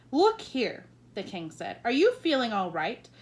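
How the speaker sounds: loud burst of royal exasperation; King of Sweden losing patience with the Queen; exasperated king. Acted. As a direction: throw up your hands at her. King doubts Queen's sanity.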